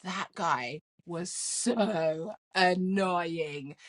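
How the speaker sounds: slow, drawn-out mock groan of a line; exasperated daughter. Daughter conceding to mom, slow and exasperated. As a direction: drag it out like a fed-up teen.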